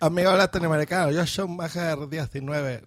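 improvised mock Catalan accent; acento catalán fingido. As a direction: have a rough go at sounding Catalan. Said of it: "Me sale algo así". (intento de acento catalán)

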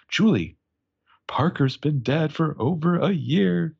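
slow, high, hammed-up announcement; overdramatic reveal. A narrator's reading. Caitlin breaking the news to Julie, hammed-up reveal. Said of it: "I probably didn't say it quite like that".

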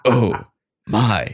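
loud, punched words with gaps between; mock scream, each word separate; narrated scream. A narrator's reading. Host voices fangirl hearing of a concert, mock scream. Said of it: "I screamed".

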